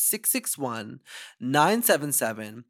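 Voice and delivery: slow, careful digits; over enunciating. Shown as a demonstration. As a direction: say each number slowly and clearly. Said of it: "let me say it slowly".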